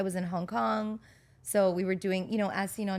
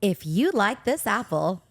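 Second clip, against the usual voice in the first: infomercial voice; 6 dB louder than usual. Shown as a demonstration. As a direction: sell it like a late-night ad. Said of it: "Infomercial voice".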